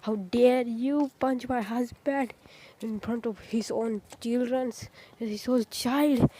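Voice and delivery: mild, slow mock outrage; Guinea's indignation. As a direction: draw out an indignant scolding without raising volume. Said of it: "Guinea got really, really angry".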